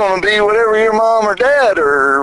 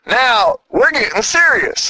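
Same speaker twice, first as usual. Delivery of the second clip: put-on perky girlfriend; 7 semitones higher than usual. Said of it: "she just perked up and said".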